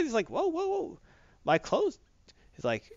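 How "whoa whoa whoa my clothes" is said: hammed-up shock, much higher; Spidey staring at his new clothes; startled whoa. Spidey sees his changed costume.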